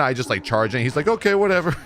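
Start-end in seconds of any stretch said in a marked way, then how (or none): 1.1-1.8 high, silly brush-off; Jesse Cox, funny voice. Retold or imitated. Healer giving up on the charging tank, funny voice. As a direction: toss it off in a put-on high voice. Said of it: "He does this funny voice".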